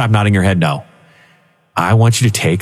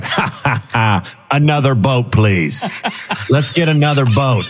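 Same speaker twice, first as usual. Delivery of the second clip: greedy Donald; 4 semitones higher, slower than usual. Retold or imitated. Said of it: "Donald's like".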